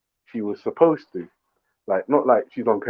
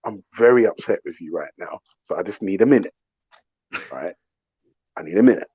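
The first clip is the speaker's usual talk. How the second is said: low, controlled displeasure; calmly fed up; restrained upset; 4 semitones lower than usual. Retold or imitated. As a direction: state it low, holding back annoyance. Retells his restrained reply to wife.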